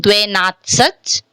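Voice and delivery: full first vowel in "Dvenatsach"; unreduced YE pronunciation. Shown as a demonstration. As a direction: say "Dvenatsach" with a clear "e" in "dve". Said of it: "Instead of pronouncing Dvenatsach".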